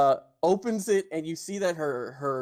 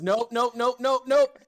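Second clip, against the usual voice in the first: higher, louder nun repeating nope; firm refusal; 8 semitones higher, 5 dB louder than usual. Acted. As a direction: stop him flat with each nope. GM voices Yolanda stopping him.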